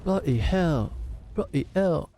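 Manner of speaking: high-pitched stunned disbelief; shocked. Acted. Watching the factory burn, stunned disbelief. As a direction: gasp it out at the blaze.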